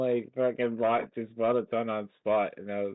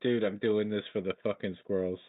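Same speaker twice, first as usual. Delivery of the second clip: excited. Real, not acted. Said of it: "I can hear your smile".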